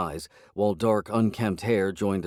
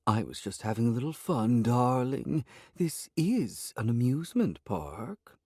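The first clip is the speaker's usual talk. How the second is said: lightly voiced sly cat, a bit higher; teasing cat voice; 4 semitones higher than usual. A narrator's reading. Sly talking cat teases her owner, lightly voiced. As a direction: purr the words back at him mockingly.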